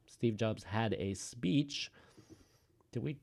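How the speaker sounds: talking with food in mouth; words round a mouthful; mouth full. Real, not acted. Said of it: "something is in my mouth".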